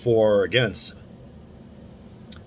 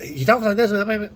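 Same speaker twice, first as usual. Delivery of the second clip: much higher, mocking squeak of a pundit; high-pitched pundit voice; 10 semitones higher than usual. Vlogger mocking a conservative pundit's voice, high squeak. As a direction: pitch way up to mock his voice. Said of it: "really high-pitched voice like this".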